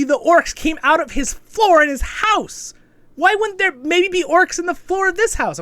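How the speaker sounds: high, loud and exasperated; incredulous rant. Real, not acted. Reviewer venting at the hero's dumb choice, exasperated. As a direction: pitch it way up in disbelief.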